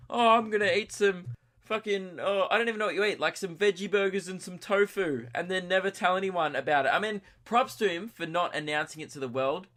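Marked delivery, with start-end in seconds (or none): 0.1-6.9 mocking imitation. Mocks secret vegan friend.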